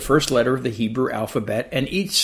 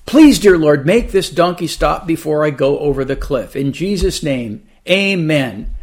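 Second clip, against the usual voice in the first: desperate prayer; 3 dB louder than usual. Acted. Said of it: "blurted out a desperate cry for help".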